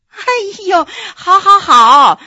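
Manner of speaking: high groan into loud, drawn-out concession; exasperated agreeing. Acted. Wife cutting short her husband's boasting, exasperated agreement. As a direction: give in with mock exasperation, stretching the last word.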